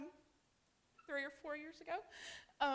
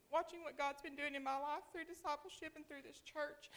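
after crying; 3 semitones higher than usual. Real, not acted. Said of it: "I've been crying already".

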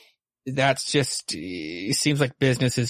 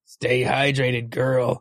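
creepy guy; much slower than usual. Retold or imitated. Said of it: "acting all creepy".

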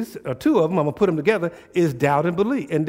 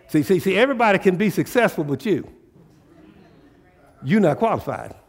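voicing Satan. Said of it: "That's how he talks".

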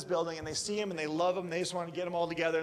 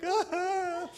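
startled ah; 5 dB louder than usual. Retold or imitated. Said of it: "And I'm like".

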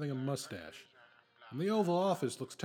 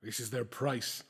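villainous gloating; 5 semitones lower than usual. Acted.

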